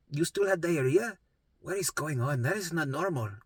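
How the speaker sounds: 1 imitating mom. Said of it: "she's like".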